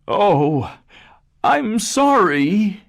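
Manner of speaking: high, loud cry for mercy; terrified father pleading; frightened plea. A narrator's reading. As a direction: beg the beast in panic. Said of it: "he cried".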